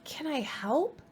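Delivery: high kindly badger checking on a friend; concerned Badger. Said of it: "he says".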